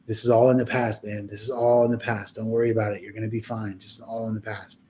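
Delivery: low, soft retold reassurance; reassuring. Friend in his ear while he was freaking out, reassuring. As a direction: soothe him in a low, even murmur. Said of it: "being in your ear being like".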